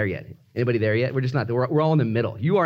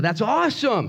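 mock enthusiasm; 6 semitones higher than usual. Friend cheers the farmer's good news.

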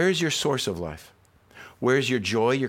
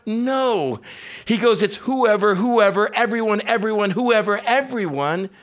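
higher and louder, driving each line home; preaching at full force; 10 semitones higher, 4 dB louder than usual. Acted. Pastor urging the congregation that everyone is welcome, preaching at full force. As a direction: preach it hard to the whole room.

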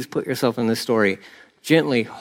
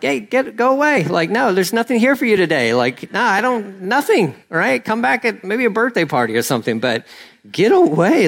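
higher-pitched, quick mock brush-off; hurried, higher comic refusal; shooing away; 6 semitones higher than usual. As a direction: wave off pests at your door. Acted shooing of circling mourners.

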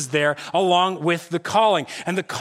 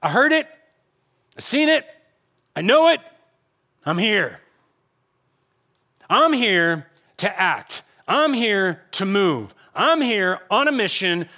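voicing God; 2 semitones higher than usual. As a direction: announce yourself as God arriving to act. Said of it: "He's like".

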